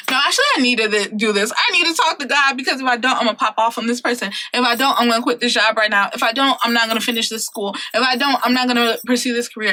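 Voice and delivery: mock-urgent, rushing at the start; acted urgency. Voicing a twenty-something who needs God, acted urgency. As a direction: insist as if near your limit.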